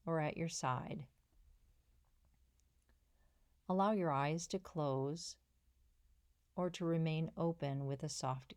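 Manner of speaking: calm guiding voice with long pauses between phrases; unhurried, settling meditation lead-in; guided meditation. Acted. Coach guides listeners into the body scan practice, calm guided meditation.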